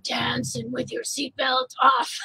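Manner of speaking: slow, lightly imitated Italian singer's voice; deep Italian voice. Artist imitating a song on the radio in Rome, deep Italian voice. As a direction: draw it out as a mock Italian crooner. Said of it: "like, deep Italian voice".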